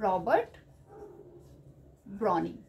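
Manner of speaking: name in two parts, long pause between; word-by-word dictation. Real, not acted. Teacher noting down the poet's name, word-by-word dictation. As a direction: say each name as you write it. Saying the name while writing it.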